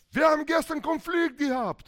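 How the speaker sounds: high, loud husband's report; hammed-up husband addressing the pastor; complaining husband.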